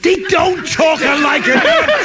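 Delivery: correcting his friend in a mock Italian accent. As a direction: ham up the Italian lilt. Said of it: "That's Italians".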